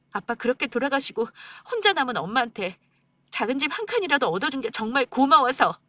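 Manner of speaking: wife tearfully confronting husband on mother's birthday. Acted. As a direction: pour out the hurt, close to crying.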